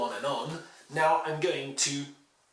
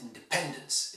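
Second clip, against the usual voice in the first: 'independence' as in-de-PEN-dence; 'independence' with the weight on its third syllable; third-syllable stress; 3 dB quieter than usual. Shown as a demonstration. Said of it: "It's stressed on the third".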